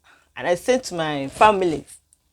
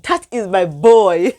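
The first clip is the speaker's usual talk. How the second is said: proud mother; 7 dB louder, slower than usual. Retold or imitated. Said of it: "I was like".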